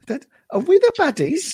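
high, amused stormtrooper; mock stormtrooper voice. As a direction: toss it off in a high silly voice. Repeating the stormtrooper line.

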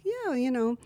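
casual Jersey mom chat, r's dropped; Jersey accent, fading away at the end; New Jersey accent. Shown as a demonstration. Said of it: "but it was like".

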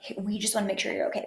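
quick, airy fake-sweet imitation; Meghan imitation. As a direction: rattle it off like a hollow PR line. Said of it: "breathy and nasally".

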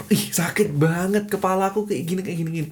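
described pain. Acted. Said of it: "Meskipun dideskripsikan sampai apapun".

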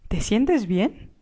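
slow, worried concern. Acted. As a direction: ask gently, slowly, if he's unwell. Aunt checks uncle's forehead.

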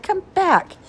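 high, loud call after him. A narrator's reading. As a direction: call him back across the room. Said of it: "Sarah cried".

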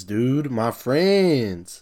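very slow, stretched "my friends"; milk the words "my friends" like a mock heartfelt appeal; dragged-out plea. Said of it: "He said".

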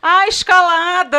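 "escalada" called out high, loud and slow, S as sh; catchphrase with sh. Shown as a demonstration. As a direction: belt out "escalada" with a drawn-out Carioca sh. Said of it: "você fala um negócio que é".

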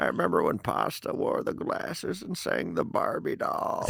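put-on slow whispered old-timer reminiscing; old man voice. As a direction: reminisce like a creaky grandpa. Continues old man bit.

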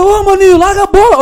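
high-pitched mimicked call; calling a teammate. Player asking the kid to pass, high urgent call. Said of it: "maninho deu um berro aqui".

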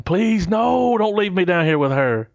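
high, pleading mock plea on please; mock begging. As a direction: friend retells a man begging not to be left with her, hammed-up pleading. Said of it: "he would be begging".

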